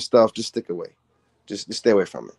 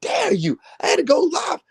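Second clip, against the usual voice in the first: hammed-up sobbing, much higher; mocking whine of a hurt poster, pitched way up; mock crying whine. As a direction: wail it like a fake crybaby. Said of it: "I'm like".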